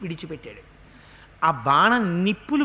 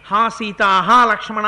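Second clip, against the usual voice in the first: louder mock cry of Rama; imitating Rama's cry; 7 dB louder than usual. Mareecha imitates Rama calling Sita and Lakshmana, mock cry. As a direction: call out as Rama in distress. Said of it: "రాముడి కంఠం mono action చేసి".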